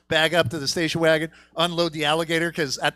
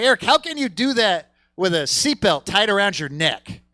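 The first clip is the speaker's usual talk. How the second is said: laughing disbelief; 4 semitones higher, 4 dB louder than usual. Retold or imitated. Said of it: "I'm like".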